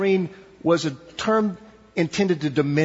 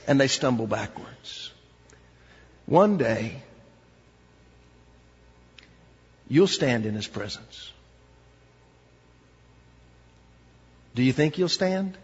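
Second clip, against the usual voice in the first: hushed appeal; 3 semitones lower than usual. Acted. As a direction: bring the room down to a hush. Soft closing appeal.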